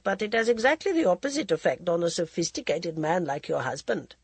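languid society lady, teasing; a drawling, worldly hostess; Lady Modi voice. Acted.

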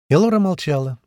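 usual speaking voice

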